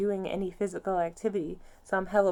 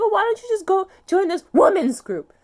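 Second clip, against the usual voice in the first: mocking the therapist; 11 semitones higher, 11 dB louder than usual. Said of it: "she's just like".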